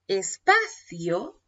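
slow, stretched "espacio" called out as a dictation cue; slow teacher's dictation call. Shown as a demonstration. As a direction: draw out "espacio" so the class leaves a gap. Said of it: "cuando yo te digo espacio".

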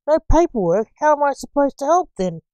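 curt exasperated protest; short, irritated. A narrator's reading. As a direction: fire back shortly, put out. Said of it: "the doctor shortly".

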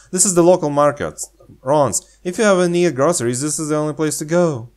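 fast, peppy tour guide; enthusiastic guide. Pretend. Showing the local market, peppy and fast. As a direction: sell it fast and bright. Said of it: "She seems very enthusiastic".

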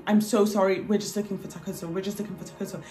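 soft, retold apologizing; profuse apology. Friend apologizing to the frightened woman, soft profuse apology. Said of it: "apologizes profusely".

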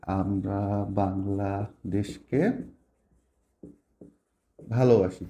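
very slow, low and drawn-out, as if writing; writing aloud. Shown as a demonstration. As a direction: say "আমরা বাংলাদেশকে" stretched out word by word. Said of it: "আমি এটাই লিখি".

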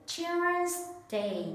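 high emphatic model. Shown as a demonstration. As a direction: lift "Children's Day" up for copying. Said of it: "listen and repeat after me".

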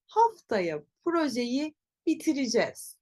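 bitireceğiz as bi-ti-ri-jez; spoken contraction. Shown as a demonstration. Teacher has learners repeat, bitireceğiz as bitiricez. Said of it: "Tekrar söyleyelim".

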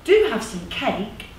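lightly voiced coaxing organiser; a hint of a friendly persuader; persuasive community organiser. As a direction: tempt them persuasively, with lively tune. Plays one of two voices.

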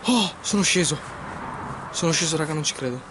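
breathless, excited relief; can't believe you made it; relieved disbelief. Real, not acted. Relieved after climbing down.

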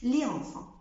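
les enfants with no linking sound, le enfants; no liaison. Shown as a demonstration. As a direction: keep les and enfants apart, silent s. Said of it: "ما بقولش". (les enfants من غير ليزون)

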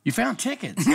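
high, laughing disbelief; can't believe the luck; surprised laugh. Retold or imitated. Surprise at finding tickets.

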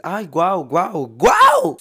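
high, loud gushing wows; mock wow. About travelling the world, loud mock wonder. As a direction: gush like a dazzled tourist. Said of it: "Uno pensaría que viajar".

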